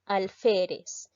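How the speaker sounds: "alférez" spoken slowly, syllable by syllable; slow teaching read of "alférez"; slow syllable split. Shown as a demonstration. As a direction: lay out "alférez" slowly so each syllable can be counted. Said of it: "vamos a separar la palabra".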